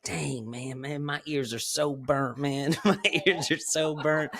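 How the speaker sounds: mild mock whine; whiny complaint. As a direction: moan about burnt ears. Devin complaining of sunburn, imitated.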